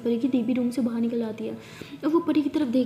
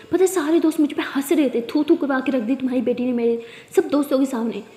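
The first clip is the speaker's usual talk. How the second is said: father shouting at the mother about Pari; furious yelling; 4 dB louder than usual. Acted. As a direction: rage at the shame. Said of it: "बहुत चिल्ला रहे होते हैं".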